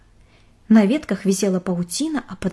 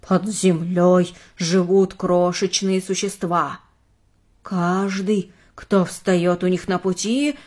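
slow, low eerie tone; lightly spooky storyteller; creepy voice; 3 semitones lower, slower than usual. Acted. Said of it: "жутким голосом произнесла Элли".

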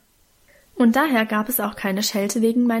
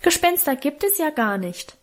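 put-on high-pitched little child's voice; piped, higher-pitched interjection; piping; 5 semitones higher than usual. A narrator's reading. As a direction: pipe up like the youngest child. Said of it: "piepste unser Jüngster".

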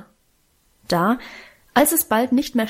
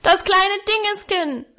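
put-on bawling toddler; 10 semitones higher than usual. A narrator's reading. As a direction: bellow it like a furious toddler. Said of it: "brüllte er".

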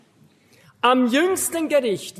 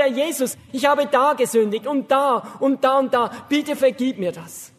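prayer. Shown as a demonstration. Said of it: "Sagen Sie".

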